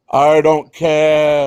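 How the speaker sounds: slow, stretched careless i don't care; mock careless. Cohost mocking the mask rant, slow careless drawl. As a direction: drag out a careless brush-off.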